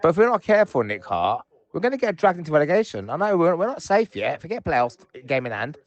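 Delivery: frustrated. Real, not acted. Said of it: "very frustrated".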